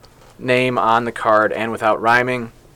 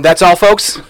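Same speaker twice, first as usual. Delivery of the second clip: stuttering cartoon pig, a bit higher; Porky Pig impression; 5 semitones higher, 5 dB louder than usual. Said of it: "Porky Pig?".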